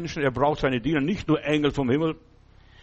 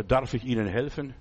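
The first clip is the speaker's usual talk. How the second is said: polite offer; 4 semitones lower, 3 dB quieter than usual. Retold or imitated. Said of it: "stelle mich Ihnen gegenüber".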